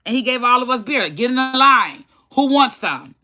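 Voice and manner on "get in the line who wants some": high, pushy called-out order; commanding father. Retold or imitated. Dad offering beer to little kids, commanding. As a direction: act out dad rounding up the kids, pitched up.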